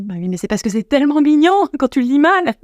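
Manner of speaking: high-pitched, cooing, breaking into laughter; mock gushing excuse. Boyfriend excusing why nobody corrected her, amused gushing. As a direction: coo it high and laugh through it.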